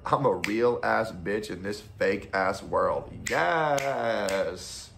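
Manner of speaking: lightly voiced sassy quote, drawn out; mock Black woman catchphrase. Streamer quoting every Black woman ever, hammed-up catchphrase. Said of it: "to quote every black woman ever".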